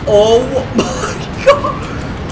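high, drawn-out amazed cry; high-pitched hyped gamer reaction; thrilled disbelief. Real, not acted. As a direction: stretch it out in excited amazement. Discovers the bike has rockets.

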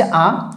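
আ said alone as an open "aa"; isolated vowel sound. Shown as a demonstration. Teacher naming the Bengali vowel as written, আ pronounced on its own. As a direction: sound out আ by itself for learners. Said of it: "আমি বাংলাতে লিখছি".

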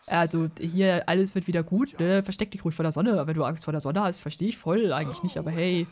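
a hint of deep bass; extremely deep bass voice. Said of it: "ich muss ihn immer tief sprechen".

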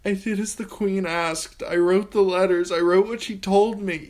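put-on terrified girl pleading with the king; desperate pleading. A narrator's reading. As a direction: beg for your life, breaking down. Sansa pleads to Joffrey.

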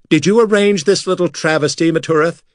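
high, furious accusation; enraged demand. Acted. Makar accusing the laughing rival priest, high furious demand. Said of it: "he demanded in rage".

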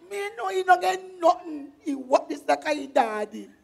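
loud, exasperated protest; indignant. Acted. Young woman rejects the suitor forced on her, loud indignation. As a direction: raise your voice in scornful complaint.

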